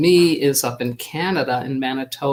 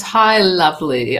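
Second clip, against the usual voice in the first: a light attempt at a British accent, a little louder; imperfect British accent; 3 semitones higher, 5 dB louder than usual. Reading out a friend's shout-out, imperfect British accent. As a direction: imitate a British friend's greeting, accent only half there. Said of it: "I can't do it in the perfect British accent".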